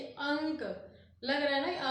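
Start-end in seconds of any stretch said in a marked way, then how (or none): 0.0-0.6 "अंक" with breath through the nose; nasal anusvara. Shown as a demonstration. Teacher has students try pronouncing it, "अंक" nasalised. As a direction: say "अंक" letting the nasal sound resound in the nose. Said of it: "आप उच्चारण करके देखिए".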